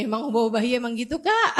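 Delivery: quick, laughing question; laughing friend. Retold or imitated. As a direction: toss it off while laughing. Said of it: "dia bilang kayak gini". (bertanya cepat sambil tertawa)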